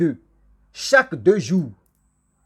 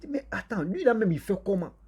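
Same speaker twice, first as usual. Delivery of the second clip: quoted villagers asking in a higher, puzzled voice; a lightly voiced villager, higher and puzzled; 6 semitones higher, 5 dB quieter than usual. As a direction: wonder aloud like a baffled villager. Villagers wondering about the hunter.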